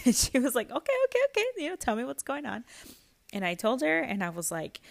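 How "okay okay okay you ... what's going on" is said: high, quick voice soothing a client; imitated therapist. Therapist responding to a crying client, imitated. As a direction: imitate a therapist hurrying to settle someone.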